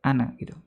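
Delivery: ana read with a short final a despite the long spelling. Shown as a demonstration. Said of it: "tulisannya panjang tapi dia dibaca pendek".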